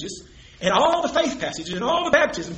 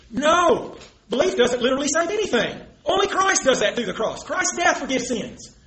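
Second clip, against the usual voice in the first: lightly mimicked opponent, higher and emphatic; Traver's argument; 4 semitones higher than usual. Debater voicing his opponent's imagined objection, lightly mimicked and emphatic. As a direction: object firmly in a raised pitch, lightly imitating. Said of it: "put it the way Traver would have put it".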